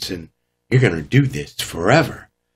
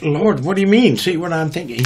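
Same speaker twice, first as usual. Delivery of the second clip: bewildered question; 7 semitones higher than usual. Retold or imitated. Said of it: "I tried to look back at the Lord, like".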